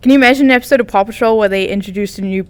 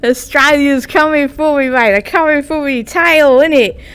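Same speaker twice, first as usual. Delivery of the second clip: higher, hammed-up Aussie accent; Australian accent; 4 semitones higher than usual. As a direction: put on a broad mock-Australian accent. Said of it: "talking in an Australian accent".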